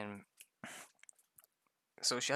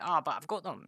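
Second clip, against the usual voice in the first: mock whiny player; 6 semitones higher, 6 dB louder than usual. Mocking a rules-lawyer player.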